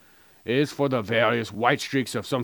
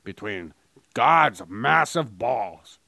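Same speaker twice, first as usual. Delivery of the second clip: mock ad read. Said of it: "this is how my advertisements would go".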